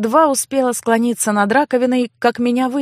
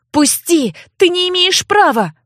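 angry yell; 8 semitones higher than usual. Acted. Sister yells at brother gripping her hair, furious. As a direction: yell at him to let go.

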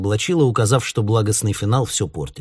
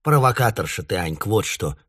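stern. Acted. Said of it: "сурово сказала мама".

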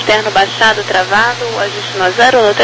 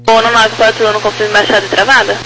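over the radio; 8 semitones higher, faster than usual. Real, not acted. Tower asking gear check by radio.

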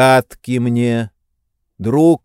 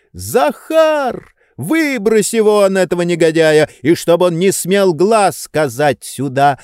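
much higher yelled order to the servant; commanding shout; 6 semitones higher than usual. A narrator's reading. Oblomov ordering Zakhar to throw him out, high shout. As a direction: bark the order across the room. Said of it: "закричал Обломов".

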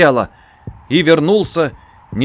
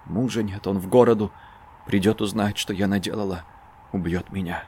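much softer, low hoarse lament; 5 semitones lower, 7 dB quieter than usual. A narrator's reading. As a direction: murmur it in dread. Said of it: "лишь хриплый голос". (хриплый голос)

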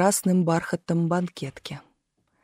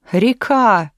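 mild surprised exclamation, pitch raised; 3 semitones higher, 4 dB louder than usual. A narrator's reading. Trader explains to the shoeshine man, surprised. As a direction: answer as if amazed it isn't known. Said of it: "удивился в свою очередь торговец".

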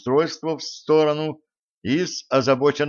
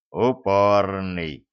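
gruff grumble; 3 semitones lower, much slower than usual. Acted. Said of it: "буркнул мужлан".

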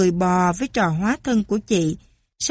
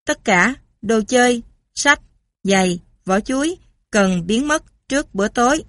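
clipped robot voice, word by word; choppy robot. Acted. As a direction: speak in chopped robot bits. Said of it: "Robot, giọng ngắt quãng". (giọng robot ngắt quãng)

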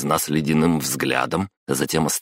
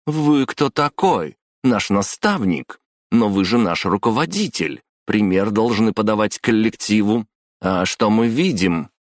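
raised-pitch, deliberate indignation; indignant challenge; 6 semitones higher, 3 dB louder than usual. A narrator's reading. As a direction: confront the boss, drawing out each accusation. Acted quarrel, confronting the boss.

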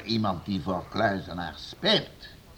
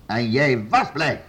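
raised, accusing lord; stern accusation; 4 semitones higher, 4 dB louder than usual. Acted. Lord accusing servant of fleeing, stern and raised. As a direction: press the servant hard, voice raised.

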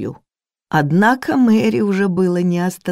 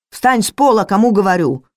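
higher, louder barked order; angry command; 5 semitones higher, 5 dB louder than usual. Acted. Cook orders the maid off the floor, higher louder angry command. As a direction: order her up sharply.

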